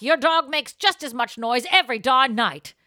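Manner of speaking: mock shouting back over the fence; retold yell back. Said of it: "I yelled back".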